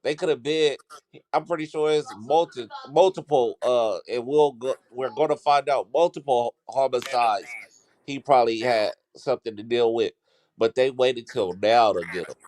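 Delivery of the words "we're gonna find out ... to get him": choked, straining for air; strangled voice. Real, not acted. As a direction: squeeze the words out through a tight throat. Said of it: "You sound like you choking yourself".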